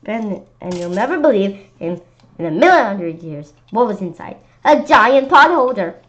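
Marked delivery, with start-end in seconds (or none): 4.6-6.0 loud, slow, wide-eyed reveal; excited reveal. A narrator's reading. Child narrator revealing the surprise, loud and slow. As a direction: land the surprise big and slow.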